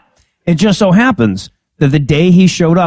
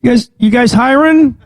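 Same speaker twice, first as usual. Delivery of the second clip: mock main character; 5 semitones higher, slower than usual. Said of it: "and he's just like".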